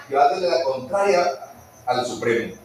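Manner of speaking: mocking enemy cackling over a sinner; the adversary gloats as a believer defies God, with a jeering laugh; gloating devil. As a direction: sneer it out with a laugh, rising to a shout.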